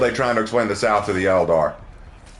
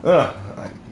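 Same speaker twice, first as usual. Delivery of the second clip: choked, recovering from a laughing fit; choking; 2 semitones higher than usual. Real, not acted. Streamer choking after laughing so hard, choked. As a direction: catch your breath after coughing. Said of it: "choking on my own".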